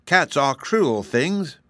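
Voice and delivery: uneasy piglet grumble; grunting piglet. A narrator's reading. Piglet complaining about cats, lightly grunting. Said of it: "grunted another of the piglets".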